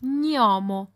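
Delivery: "Gnomo" avec gn comme dans signal; "Gnomo" à l'italienne, gn en un seul son; gn mouillé italien. Shown as a demonstration. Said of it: "on le prononce comme dans le mot signal". (« Gnomo », début mouillé, nyo)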